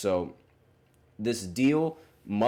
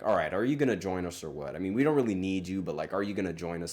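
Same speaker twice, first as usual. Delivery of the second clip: mimicking Bill Belichick; faster than usual. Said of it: "trying to mimic Bill Belichick".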